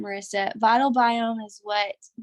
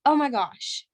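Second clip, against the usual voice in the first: higher, rising panic at her own photo; freaking out; 7 semitones higher than usual. Retold or imitated. Retelling her shock at the side-by-side, higher and panicky. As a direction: gasp it out like you can't believe your eyes. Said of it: "I just started freaking out".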